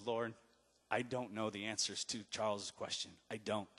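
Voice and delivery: soft, low, humble prayer; hushed prayer. Retold or imitated. Alone on his knees at night, praying softly. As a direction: whisper your confession to God.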